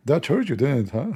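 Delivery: high, loud gloating jab; mocking taunt. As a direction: rub it in with a grin. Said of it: "he said to the German chancellor".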